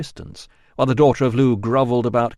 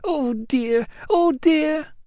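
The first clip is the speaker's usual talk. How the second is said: muttering; much slower than usual. A narrator's reading.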